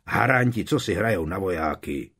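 scornful. Acted. Mother scorns teen army.

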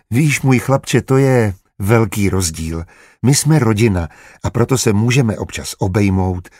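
gently explaining like a mother; soothing a small boy; motherly. Acted. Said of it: "vykládala mateřsky". (mateřsky, klidně)

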